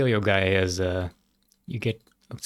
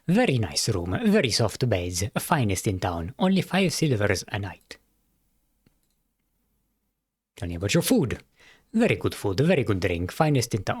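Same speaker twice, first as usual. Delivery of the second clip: a light, lower cat-innkeeper voice; 3 semitones lower than usual. Acted. Innkeeper welcoming a traveler, lightly voiced cat host.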